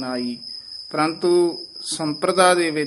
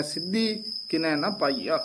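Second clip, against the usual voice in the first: softer line, lifted "ਸਿੱਧੀ" with brief halt; 6 dB quieter than usual. Shown as a demonstration. Teacher showing the short halt, softer careful reading. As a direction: hold "ਸਿੱਧੀ" before "ਕਿਨੈ ਨਾ ਪਾਈਆ". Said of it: "ਸਿੱਧੀ ਤੇ ਯਮਕ ਲਾ ਦੇਣੀ ਹੈ".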